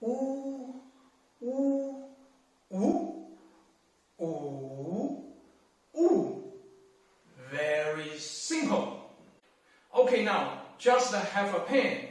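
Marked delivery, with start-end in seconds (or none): 0.0-6.4 U level, rising, dipping, falling; U in four tones. Shown as a demonstration. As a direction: run U through all four tones.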